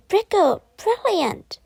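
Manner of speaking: high, loud delighted cry; excited exclaim. A narrator's reading. Boys exclaiming over their present. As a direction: gasp it with glee.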